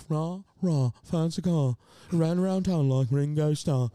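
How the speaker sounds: imitating a friend's put-on British; fake British accent. Friend at the mic doing the bridge, fake British accent. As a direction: chant it in a rounded mock British accent. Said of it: "Can you do a British accent?".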